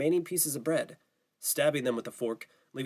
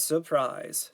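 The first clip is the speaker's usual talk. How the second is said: sarcastic, falling; 3 semitones higher than usual. Acted. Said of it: "Steve responded".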